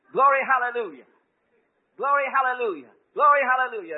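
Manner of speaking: high, loud glory hallelujah chant; jubilant praise. Retold or imitated. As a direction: chant it in rising joy. She was just going with it.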